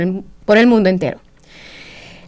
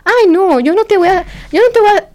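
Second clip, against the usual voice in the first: quoting the priest; 10 semitones higher than usual. Retold or imitated. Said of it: "me dijo".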